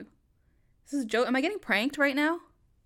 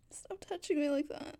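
tearful plea; 5 dB quieter than usual. Acted. Groped again, tearful.

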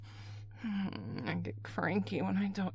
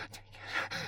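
soft whispered order; whispered command; 7 dB quieter than usual. Acted. Caller ordering an absent partner, whispered command.

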